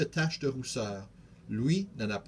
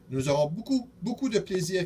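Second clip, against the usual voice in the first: higher, eager cry; shouting; 6 semitones higher, 3 dB louder than usual. A narrator's reading. Charlot crying out about fun at home, eager. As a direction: call it out with glee. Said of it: "crie Charlot".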